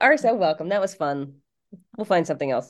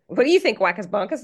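puppet voice; 3 dB louder than usual. Pretend. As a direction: squeak it out like a hand puppet. Acting out puppet dialogue.

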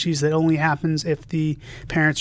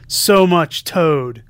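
"So much Toad" stretched slowly, each word drawn out and louder; slow drawn-out repeat; 6 dB louder, much slower than usual. Retold or imitated. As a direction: drag out the punchline slowly and loudly. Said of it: "quoting something that Ryan and I said".

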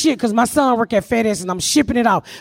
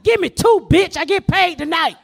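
high defiant shout; brash mock yell; retold shout; 4 semitones higher than usual. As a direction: dare him to write two tickets. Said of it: "I said".

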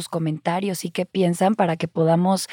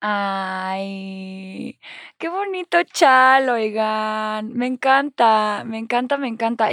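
gushing; 2 semitones higher, slower than usual. Real, not acted. Gushing over a shawl.

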